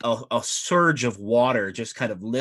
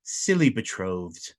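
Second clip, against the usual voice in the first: amused mermaid. Acted. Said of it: "she says".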